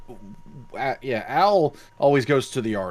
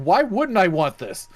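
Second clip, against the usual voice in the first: high, drawn-out mock incredulity; slow, higher-pitched imitated protest; a pop star; 7 semitones higher, slower than usual. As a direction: imitate a baffled star, higher and slower. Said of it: "she was just like".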